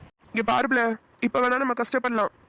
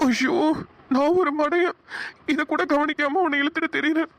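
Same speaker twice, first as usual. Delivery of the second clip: higher-pitched anguished lament; dismayed self-reproach; 4 semitones higher than usual. Acted. Husband realises he overlooked his wife's hunger, dismayed self-reproach. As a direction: scold yourself in dismay.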